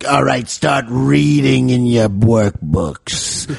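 slow, drawn-out teacher voice; a bored teacher leaving the class, slowly. Retold or imitated. Teacher to his students, slow and drawn out. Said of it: "So he'd be like".

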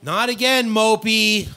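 mock exasperation. Teasing a moping friend, retold.

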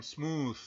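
"smooth" with a long oo vowel; smooth con U; English smooth. Shown as a demonstration. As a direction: stretch the oo in "smooth". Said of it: "suele sonar U".

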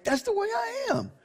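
very high, light voice; high retold answer. God explaining riddles and dark sayings, in a high light voice.

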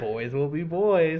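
goofy. Pretend. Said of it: "the judge says".

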